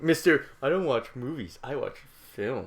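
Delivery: mocking a pretentious cinephile; mock-haughty, dropping down for the last phrase; imitating film snob. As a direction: parody a snob correcting someone. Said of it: "film cuck".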